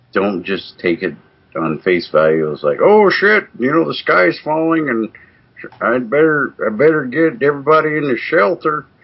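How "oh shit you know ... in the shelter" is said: very high, silly, put-on southern drawl. Mocking someone panicking over sensational emails, in a put-on southern drawl. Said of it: "sorry for using my southern drawl".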